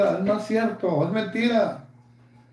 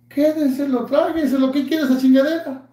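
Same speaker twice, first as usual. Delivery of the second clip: raised, higher angry rant; higher and louder, furious; angry outburst; 8 semitones higher, 3 dB louder than usual. Real, not acted. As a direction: lash out at him, pitch up. Ranting at a rival streamer.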